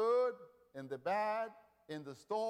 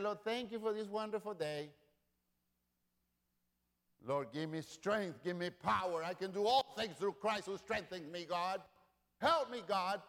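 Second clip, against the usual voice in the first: voiced prayer; 4 semitones higher than usual. Preacher voices Nehemiah praying.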